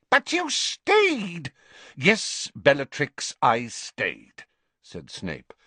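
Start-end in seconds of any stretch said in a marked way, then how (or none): 0.1-1.5 high, slow indignant cry; accusing. A narrator's reading. Bellatrix accusing. 2.0-4.5 impatient. A narrator's reading. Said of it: "a hint of impatience".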